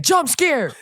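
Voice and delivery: high, loud, laughing shout; spring it on them like a prank; mock shout. Host acting out jump-scaring opponents, loud mock shout. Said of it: "run up to opponents and be like".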